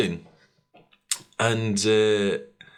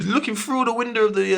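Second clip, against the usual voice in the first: high, laughter-broken retelling; laughing while talking; 10 semitones higher than usual. Real, not acted. Retelling a man filming police cars, laughing while talking. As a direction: push the words out through a laugh.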